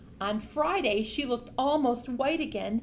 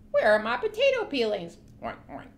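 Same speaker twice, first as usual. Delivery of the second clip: pig voice; 5 dB louder, faster than usual. Acted. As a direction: demand peelings like a pig. Pig asks for peelings.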